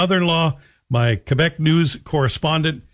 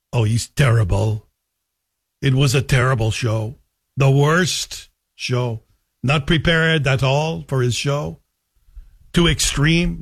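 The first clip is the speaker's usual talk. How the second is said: hint of a Quebec French accent, dismissive; lightly put-on Québécois accent passing judgment; mother-in-law's Quebec accent. Mother-in-law trashing the talk radio host, light Quebec accent. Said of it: "making fun of my mother-in-law's accent".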